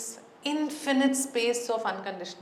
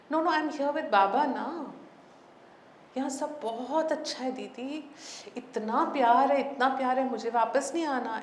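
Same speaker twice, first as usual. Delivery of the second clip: higher, rushed and joyful; blissful girl's voice; 4 semitones higher, much faster than usual. Retold or imitated. Departed girl telling Didi she is happy with Baba, rushed and joyful. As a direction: tumble the words out, light and elated.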